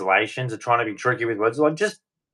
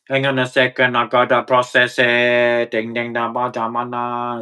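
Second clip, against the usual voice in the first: mock robot. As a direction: play a computer processing, lightly. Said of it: "you sound like a freaking robot".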